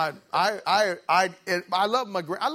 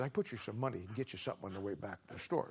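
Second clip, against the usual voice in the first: soft, fast, low murmur; hushed quick promise; 6 semitones lower, 12 dB quieter, faster than usual. Retold or imitated. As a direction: slip it in quickly before grandma returns.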